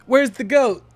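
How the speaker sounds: high, loud squeaky question; imitating her. Streamer imitating a woman in the movie asking for the goat, high. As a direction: pitch it way up like a panicked woman. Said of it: "she was like".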